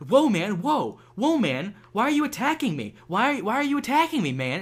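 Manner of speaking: high, loud mock protest; victimized troll. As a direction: play the wronged victim, hammed-up and indignant. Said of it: "the victimized troll".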